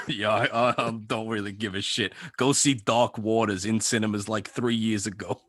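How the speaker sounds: lightly voiced sleazy Italian; a hint of offhand Italian sleaze; Mark Ruffalo impression. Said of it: "why is Mark Ruffalo a sleazy Italian".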